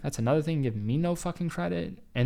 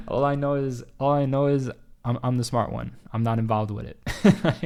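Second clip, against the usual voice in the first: louder, emphatic denial; 5 dB louder than usual. Real, not acted. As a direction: insist loudly, amused. Laughing it off, emphatic.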